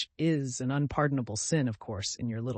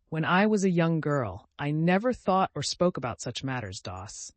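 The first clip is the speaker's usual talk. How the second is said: crushing put-down from a prim aunt; lightly voiced stern aunt, crushing; 3 semitones higher, 4 dB louder than usual. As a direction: flatten her with each word.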